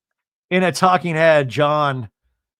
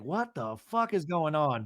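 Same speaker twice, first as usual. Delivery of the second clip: hushed, bewildered murmur; baffled aside; 8 dB quieter than usual. Retold or imitated. Everybody at the table baffled, in a soft murmur. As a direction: say it softly under your breath.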